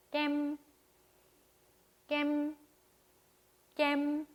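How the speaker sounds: 깸 held high and level; high, long tone. Shown as a demonstration. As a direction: stretch 깸 on one steady high note. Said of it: "보통 톤보다 높고".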